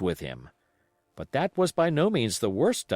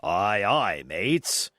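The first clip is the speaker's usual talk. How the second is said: cheerful sailor; 3 semitones lower, much slower than usual. Acted. Long John agrees to sing.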